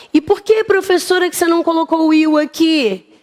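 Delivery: high, quick curious pupil; pupil's question. Pretend. Teacher imitating a pupil challenging her, pitched high. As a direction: ask it like a nosy student.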